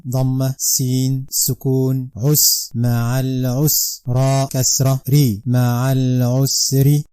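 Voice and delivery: Arabic syllables said softly, with "ma'al usri" slowed at the end; soft spelling drill. Shown as a demonstration. Teacher spelling Arabic softly for pupils. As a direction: spell "ma'al usri" gently, then draw it out. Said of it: "is as the following".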